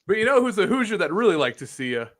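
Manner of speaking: high mock promo, stretching the name into a shout; bad imitation of a wrestler's big announcement; terrible C M Punk. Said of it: "This is my C M Punk impression".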